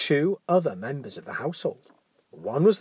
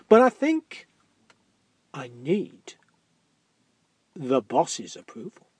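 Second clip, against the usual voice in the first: gatekeeper voice; 5 dB louder than usual. Acted. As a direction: voice the nervous gatekeeper.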